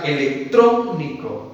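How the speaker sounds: "electrónico" said slowly, weight on TRÓ; slow example word. Shown as a demonstration. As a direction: stretch "electrónico" with TRÓ stressed. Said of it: "De igual manera". ("electrónico" despacio, con fuerza en TRÓ)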